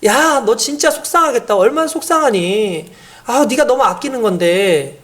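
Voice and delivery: slow, tender comfort; a mother slowly comforting her upset child; soothing mother. Shown as a demonstration. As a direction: ease the child's hurt gently. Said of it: "그러면서 한 가지 더 나가요".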